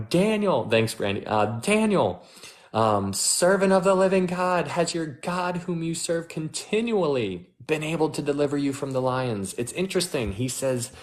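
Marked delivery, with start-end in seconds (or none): 0.1-0.7 a high, lamenting call to Daniel, reading the king; calling out in grief, pitched well up; lamenting cry. Acted. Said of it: "he cried out with a lamenting voice". 1.6-9.5 lamenting cry. Acted. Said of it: "he cried out with a lamenting voice".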